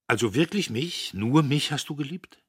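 put-on a cocky young man laughing off an old story; Dietrich amused.

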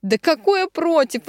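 high, loud, drawn-out indignant protest. A narrator's reading. Marina to doubting Ilya, indignant. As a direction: protest as if the idea is absurd. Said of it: "возмутилась она".

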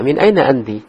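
MIN AINA ANTI asked, pitch jumping on AINA then dropping; question intonation. Shown as a demonstration. Teacher shows students the right tune, questioning "Min aina anti". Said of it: "Nah, gitu".

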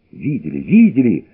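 flaring up. Acted. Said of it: "вскипела Анна".

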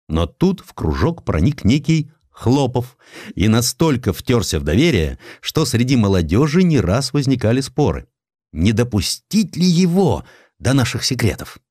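ordinary delivery

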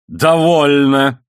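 outburst. A narrator's reading. Man cuts her off with clenched fist, exploding. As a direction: break out after silence, stretching the word. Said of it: "наконец, прорвался".

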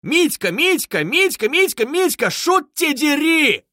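high, loud, slow bellow; yelling at full throat. A narrator's reading. Man running downstairs bellowing for Mitka. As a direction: yell the name down the stairwell. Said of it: "крича во всю глотку".

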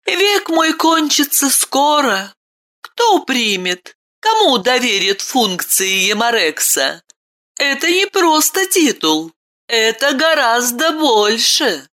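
put-on a boy sighing softly about his end; quiet sadness. A narrator's reading. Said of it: "вздохнул с тихой грустью".

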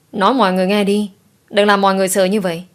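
father pleading fast with his sobbing daughter; anxious urging. Acted. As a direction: hurry her to say what happened. Worried father urges crying daughter.

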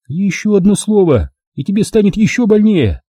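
high, menacing promise; Milka, threatening. A narrator's reading. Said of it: "пообещала она".

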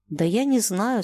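plain reading voice

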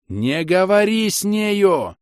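high, loud, drawn-out cry; urgent shout. A narrator's reading. Inquisitor warning the old woman, high urgent shout. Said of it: "закричал я".

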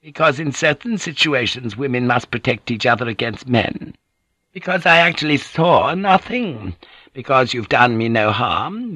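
candid Gyoko. Acted. Gyoko explaining her risk to the lady, lightly voiced and candid.

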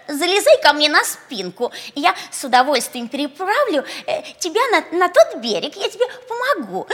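high, loud honeyed coaxing; sweet ingratiating. Acted. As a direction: coax him onto your back. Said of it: "сладким, вкрадчивым голосом".

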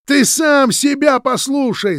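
high, loud, slow yell. A narrator's reading. Roman yelling at Vitya, loud roar. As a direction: roar it at him. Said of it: "заорал Роман".

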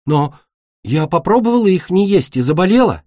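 high, plaintive objection; upset protest. Acted. Беда protests to her mother. (жалобно возражая, высоким голосом)

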